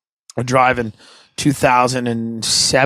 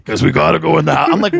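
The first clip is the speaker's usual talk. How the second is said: ordinary talk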